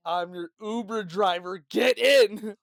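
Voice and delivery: loud, slow, pushy pretend driver; mock commanding. Fake Uber driver to a stranger, mock commanding shout. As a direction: order them in, building to a shout.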